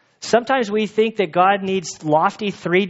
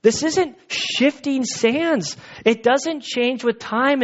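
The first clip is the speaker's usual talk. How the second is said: higher, earnest declaration, slowing on shifting sands; voicing the psalmist; 7 semitones higher, slower than usual. Pastor voicing the psalmist telling the Lord, lightly raised and earnest. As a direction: speak as the psalmist, lifted and sure. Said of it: "like the psalmist says, like".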